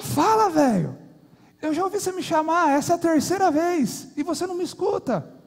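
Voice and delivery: high, fed-up snap at the husband, quick at first; wife yelling back. Acted. Old wife yelling at her husband, exasperated. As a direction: scold him sharply for calling a third time. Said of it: "ela olhou pra ele e gritou".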